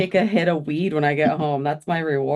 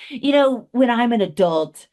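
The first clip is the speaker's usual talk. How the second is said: high, lightly voiced little kid; childish voice; 6 semitones higher than usual. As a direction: lightly play your younger self. Retelling her childhood thought.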